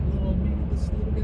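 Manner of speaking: high-pitched coy. Pretend. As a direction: squeak it out like a tiny guy. Mock coy, higher and faster.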